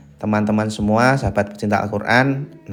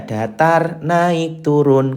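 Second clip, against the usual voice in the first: higher voice naming flat, rising, falling; three tones named; 5 semitones higher, much slower than usual. Shown as a demonstration. Teacher names the three tones, raised voice. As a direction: sing datar flat, naik rising, turun falling. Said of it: "tiga nada".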